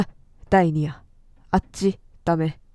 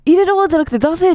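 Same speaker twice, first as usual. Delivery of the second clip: high, loud, stretched shout of realization; shocked shout; 8 semitones higher, 5 dB louder, faster than usual. Real, not acted. Streamer realizes the handprints meant let me out, shocked shout. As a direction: yell it out as the horror dawns.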